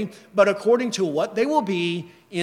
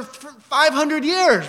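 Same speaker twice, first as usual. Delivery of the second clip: higher and slow, stretching the words; exaggerated emphasis; 7 semitones higher, 4 dB louder, slower than usual. Pastor mocking a politician's age to the congregation, higher and slow. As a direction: drag it out to mock how long.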